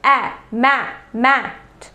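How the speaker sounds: "मैट" built up slowly: ए, मै, मैट; sounding out. Shown as a demonstration. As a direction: isolate the vowel, then stretch out "मैट". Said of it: "जब हम मैट बोल रहे हैं". ("मैट" धीरे-धीरे जोड़कर: ए, मै, मैट)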